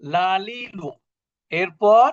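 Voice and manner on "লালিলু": লালিলু with a plain Bangla l. Shown as a demonstration. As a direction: sound out লালিলু with light, clear l's. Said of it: "বাংলা ল একারে লা".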